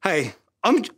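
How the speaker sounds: out of breath from the impressions; sigh, then talk on slightly winded; puffed out. Real, not acted. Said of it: "I'm puffed out just trying to pretend".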